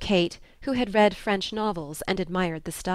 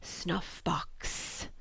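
hollow, much softer ghostly whisper; sepulchral tone; 10 dB quieter than usual. Acted. Ghost threatening the knight, a sepulchral whisper. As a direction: breathe it like a ghost from the tomb. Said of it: "in a sepulchral tone".

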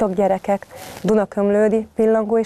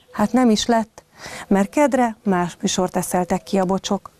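put-on lively read-aloud storytelling for children; story narration. A narrator's reading. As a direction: tell it like a bedtime tale to little kids. Reads a bedtime story to children.

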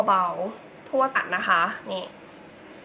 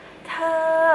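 high falsetto voice; 5 semitones higher, much slower than usual. Shown as a demonstration. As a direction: say เธอ in a high, sweet falsetto. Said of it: "เราก็ทำเสียงเป็นเสียงสอง". (พูดว่า เธอ ด้วยเสียงสองแหลมๆ)

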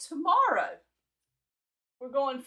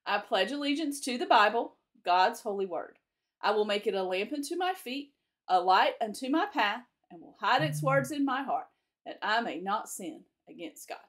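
steady classroom recitation, one phrase at a time; pledge recital. Acted. Teacher leading the class in the flag pledge, measured recitation. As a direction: lead the children through the pledge.

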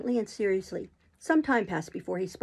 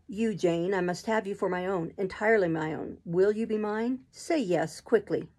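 Rochester, possessive and urgent. Acted. Rochester begs Jane to say yes, lightly voiced and urgent. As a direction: press for her answer.

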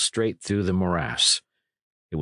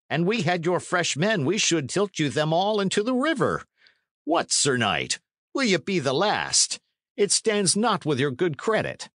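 higher-pitched, pressing herald's appeal; urgent messenger; 6 semitones higher than usual. Acted. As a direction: urge a knight into battle, voice raised in pitch. Messenger urges the knight to battle.

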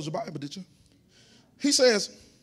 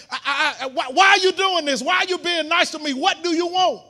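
crying woman; 5 semitones higher, 6 dB louder than usual. Retold or imitated. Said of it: "She said".

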